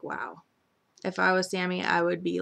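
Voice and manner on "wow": much softer, lower stunned wow. Real, not acted. Viewer stunned by the insult, much softer. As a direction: breathe it out in shock. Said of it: "I was like".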